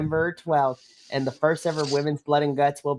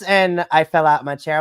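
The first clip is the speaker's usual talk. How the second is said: normal talking voice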